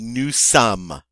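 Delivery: "nous sommes." with final s silent; French pronunciation. Shown as a demonstration. Teacher shows "we are" in French, clearly modelled. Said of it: "the final S is not pronounced".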